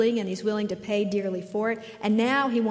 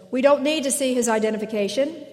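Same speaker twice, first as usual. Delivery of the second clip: louder and higher, quick robotic echo; entranced trooper; 4 semitones higher, 6 dB louder, faster than usual. Retold or imitated. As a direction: parrot it back like a hypnotized guard. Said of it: "the entranced trooper says".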